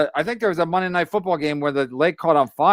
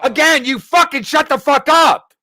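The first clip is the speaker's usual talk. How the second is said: angry; 6 semitones higher, 4 dB louder than usual. Real, not acted. Telling co-host to shut up.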